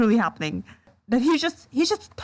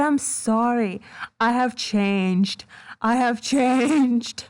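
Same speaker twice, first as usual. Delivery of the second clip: mocking apology; slower than usual.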